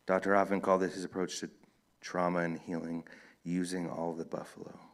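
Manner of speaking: measured book reading with lightly voiced dialogue; story narration. A narrator's reading. Author reads a novel to an audience, story narration. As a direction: read the novel aloud, evenly paced with distinct pauses.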